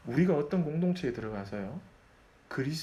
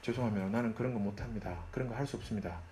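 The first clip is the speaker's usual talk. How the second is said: polite refusal; 4 semitones lower, 5 dB quieter than usual. Retold or imitated. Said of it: "아주 정중하게 얘기할 수 있어야 돼요".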